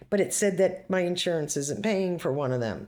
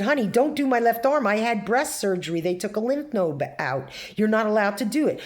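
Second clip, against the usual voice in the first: firm and raised; 4 semitones higher, 4 dB louder than usual. Retold or imitated. Retold telling off nurse.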